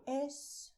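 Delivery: escuchar split into three syllables with pauses; Spanish escuchar. Shown as a demonstration. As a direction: say es-cu-char syllable by syllable. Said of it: "And to listen in Spanish".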